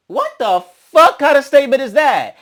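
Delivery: high, loud indignant question; outraged disbelief. Real, not acted. Appalled at Mariah's microwave comment, loud and high. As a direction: demand an answer, appalled.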